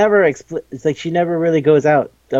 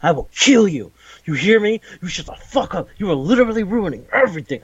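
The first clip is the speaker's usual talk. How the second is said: mock menacing threat; 4 semitones higher than usual. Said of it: "grabs him by the throat and goes like".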